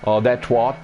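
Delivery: "twat" said the American way; mock the American "twat"; American-style twat. Shown as a demonstration. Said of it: "it's not getting the same ring".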